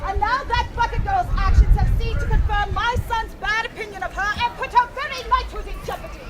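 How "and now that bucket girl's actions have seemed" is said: forceful. Acted. Queen grows forceful over consequences.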